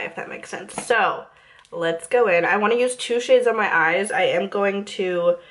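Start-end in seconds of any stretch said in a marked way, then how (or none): 0.0-0.7 unvoiced soft whisper. Real, not acted. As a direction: whisper the tag. Whispered repeat of tag.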